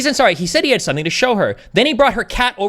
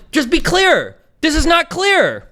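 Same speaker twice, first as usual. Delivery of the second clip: slow, high, emphatic insistence; exasperated; 9 semitones higher, 3 dB louder, slower than usual. Real, not acted. Debater demanding clearer wording, slow and exasperated. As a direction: hammer each word slowly in exasperation.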